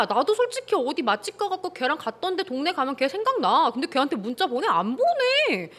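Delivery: sarcastic mock comeback, fast; mock rebuttal. Host acts his comeback to his crying girlfriend, mock sarcastic. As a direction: throw her excuse right back at her. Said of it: "근데 걔가 막 울어".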